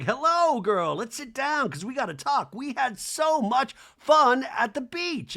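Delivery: high, hammed-up girlfriend chat; Bose. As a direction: gush it, stretching the last phrase. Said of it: "And Bose is like".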